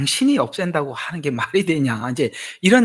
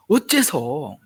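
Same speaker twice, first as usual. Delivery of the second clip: louder second 어째서, rising in protest; demanding why; 4 semitones higher, 4 dB louder, much slower than usual. Retold or imitated. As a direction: press the question twice. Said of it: "막 이렇게 따지고 들어온단 말이에요". (따지는 어째서)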